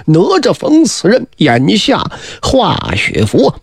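slow, measured storyteller's verse; verse recitation. A narrator's reading. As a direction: chant the lines slowly, phrase by phrase. Recites a verse about the blade.

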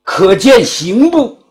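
a magistrate losing patience with insolent prisoners; indignant magistrate. Acted. Magistrate scolds defiant criminals. (县官气恼训斥)

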